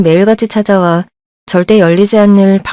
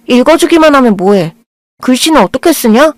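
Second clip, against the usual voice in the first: sharp retort; 5 semitones higher than usual. Acted.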